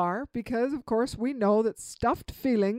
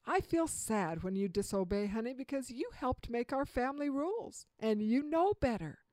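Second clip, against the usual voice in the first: put-on tender to child; 4 dB quieter than usual. Shown as a demonstration. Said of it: "talk maybe to your child".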